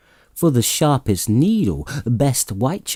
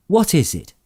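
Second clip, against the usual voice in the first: higher eager question; cried out; 8 semitones higher than usual. A narrator's reading. Fred crying out to his sister, higher and eager. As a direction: ask it excitedly. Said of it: "cried Fred".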